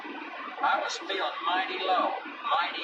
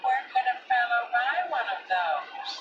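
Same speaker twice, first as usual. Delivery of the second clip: a lightly voiced smug cat, mocking; teasing barn cat; 4 semitones higher than usual. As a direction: sneer sweetly at the dog, rising on the question. Pete the cat teases.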